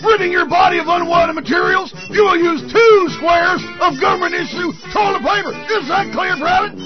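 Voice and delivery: shouting drill sergeant orders. Acted. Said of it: "comedy drill sergeant bit".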